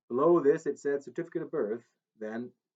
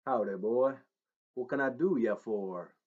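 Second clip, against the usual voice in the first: light Tennessee twang of a famous singer; a hint of the singer's Southern accent, playful; a singer's Southern drawl. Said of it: "in an accent not his own".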